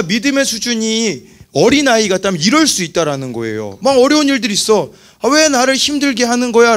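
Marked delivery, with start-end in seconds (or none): 5.2-6.8 higher mock whine of complaint; resentful complaining. Preacher imitates an immature believer blaming others, mock complaining. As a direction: imitate someone grumbling at hardship, pitched up. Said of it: "원망과 불평만 하고".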